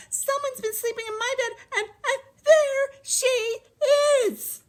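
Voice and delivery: very high squealing cub; squeaking baby bear. A narrator's reading. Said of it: "Baby Bear peeked at her little bed and squeaked".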